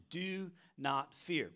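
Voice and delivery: tender, slow exhortation; gentle slow command. Acted. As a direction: comfort them as you give the command. Applying the command to listeners.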